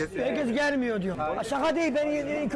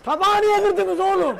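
laughing; 5 semitones higher, 9 dB louder, slower than usual. Real, not acted. Laughing at broken plate scene.

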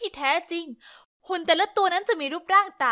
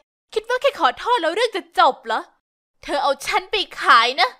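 annoyed retort; 6 dB louder than usual. Acted. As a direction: throw the apology back at her. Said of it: "นั่นทำให้ฉันยั่วมาก".

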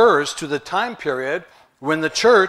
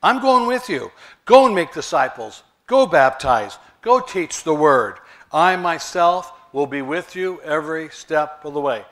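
voicing Jesus, emphatic; 4 dB louder than usual. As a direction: urge them on as Jesus sending them out. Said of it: "Jesus is saying".

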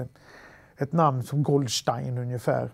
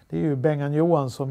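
ordinary talk, nothing marked

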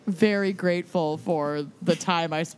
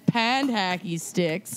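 put-on Minnesotan accent, slow; slower than usual. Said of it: "unleash their worst Minnesotan accents".

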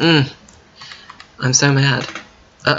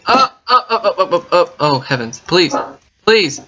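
desperate pleading; 5 semitones higher, 3 dB louder than usual. Real, not acted. Desperate hope of finding way.

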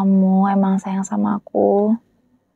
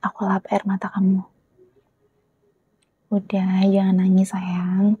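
soothing whisper. Acted. Girlfriend wiping her crying boyfriend's tears, tender whisper. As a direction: hush him gently, barely voiced.

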